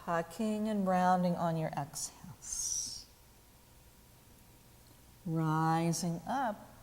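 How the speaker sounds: calm teacher cueing movement with the breath; unhurried cues, pauses left for each breath; guided yoga practice. Acted.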